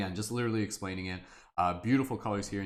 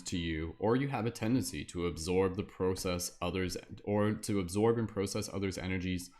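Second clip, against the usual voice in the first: wizard voice. Pretend. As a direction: read it out like a solemn wizard, drawing out phrase endings. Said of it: "my like wizard voice".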